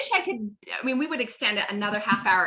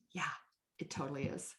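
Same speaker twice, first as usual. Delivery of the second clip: low, very soft demo answer; hushed, low-key agreement; unbothered reply; 7 semitones lower, 16 dB quieter than usual. Shown as a demonstration. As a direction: answer casually, well under your usual volume. Demonstrating unbothered answer to prospect.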